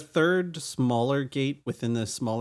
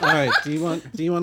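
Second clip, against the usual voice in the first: laughing; 3 semitones higher, 5 dB louder, faster than usual. Real, not acted. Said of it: "laughs while agreeing".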